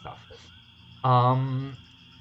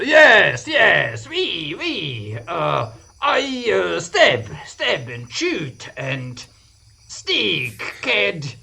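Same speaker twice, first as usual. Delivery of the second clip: mock French accent; 3 dB louder, slower than usual. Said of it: "how to make a French accent in English".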